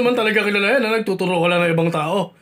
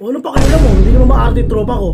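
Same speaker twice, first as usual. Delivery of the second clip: angry; 4 semitones higher, 8 dB louder than usual. Acted. Angry quarrel with ex.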